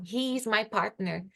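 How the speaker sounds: he is my partner said a little slowly; teacher example, unhurried; example sentence. Shown as a demonstration. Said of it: "como o substantivo".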